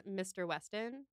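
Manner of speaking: lightly imitated transatlantic accent, drawn out; Mrs Elton's accent. Co-host showing how Mrs Elton says it, mock transatlantic accent. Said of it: "like, a m-, transatlantic".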